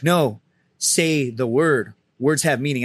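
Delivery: slow, deliberate gunny imitation; stern insistence. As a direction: space the words out as a firm order. Imitates gunny insisting on exact word.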